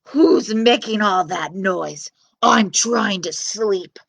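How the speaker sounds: slow, loud giant roar. Acted. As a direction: boom it out like a sleepy giant. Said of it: "roared the giant".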